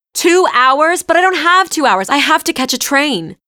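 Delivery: high, loud frantic protest; exasperated. A narrator's reading. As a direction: panic about missing the train.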